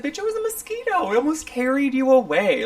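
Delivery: high, loud comic disbelief; retold exclamation. Retelling to friend the giant mosquito on her, loud exclamation. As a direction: exclaim it in hammed-up alarm.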